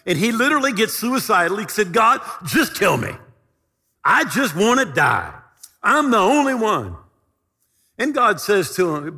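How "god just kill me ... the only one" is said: a loud, anguished plea to be allowed to die; despairing cry. Acted. Preacher voicing Elijah shouting to God, louder and desperate. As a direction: cry it out like a man at the end of himself.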